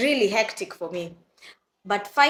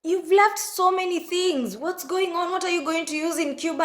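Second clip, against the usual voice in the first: imitating mom; 9 semitones higher than usual. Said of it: "she was like".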